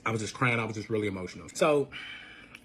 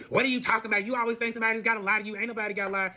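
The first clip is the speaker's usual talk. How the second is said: quick, indignant mock protest; mad boyfriend; 3 semitones higher, faster than usual. Retelling boyfriend's denial of lying, mildly mad. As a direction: imitate his annoyed, defensive comeback. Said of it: "So he gets mad".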